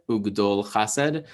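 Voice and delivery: Ugdol Chased slow and joined, O in "dol"; demonstrated pronunciation. Shown as a demonstration. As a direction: repeat "Ugdol Chased" slowly as one phrase, with an O in "dol". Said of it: "which is pronounced".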